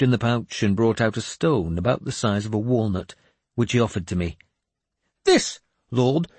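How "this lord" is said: put-on high, slow, grandly pious old madman; a cracked holy man delivering God's message; raised, slow prophet voice; mad bishop voice. Jeremias offers stone.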